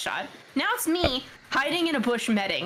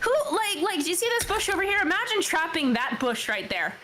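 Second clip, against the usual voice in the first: high, incredulous mock rant; retold crash-out; 5 semitones higher than usual. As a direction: rattle out a pitched-up, exasperated complaint. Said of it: "like, a crash out on him".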